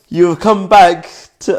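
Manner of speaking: trying to read through rising giggles; real laughing fit starting; breaking into laughter. Real, not acted. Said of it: "Why am I laughing?".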